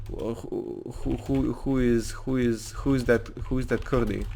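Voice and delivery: halting, put-on Russian accent; stumbling mock Russian English; fake Russian accent. Anton asking who and where someone is, fake Russian accent. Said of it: "I'm trying to fake a Russian accent".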